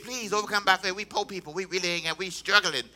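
lightly voiced mock pleading for money; a hint of a poor man begging the bank. Pastor imitating begging the bank, mild mock pleading. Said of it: "How many want me to beg?".

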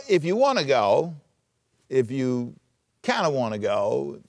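tentative, rising "wanna", unsure; wishy-washy. Shown as a demonstration. Preacher mocking a vague suggestion, tentative. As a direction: trail off like you don't mean it. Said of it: "then that's subjective".

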